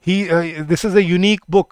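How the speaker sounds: this is a unique book, very slow; slow model sentence. Shown as a demonstration. Teacher reading a unique book slowly. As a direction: spell it out slowly. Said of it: "model sentence".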